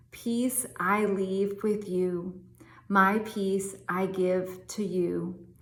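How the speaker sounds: slow, measured Bible reading; scripture reading. Acted. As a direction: read each verse slowly and reverently. Reads scripture slowly.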